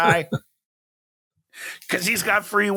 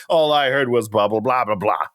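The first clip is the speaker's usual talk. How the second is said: Snoopy adult mumble; 6 semitones lower than usual. Retold or imitated. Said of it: "like the Snoopy adult characters".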